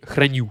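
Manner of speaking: "hraniu" with the final syllable stressed; stress on last syllable. Shown as a demonstration. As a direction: stress the end of "hraniu", hra-NIU. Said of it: "sur la dernière syllabe".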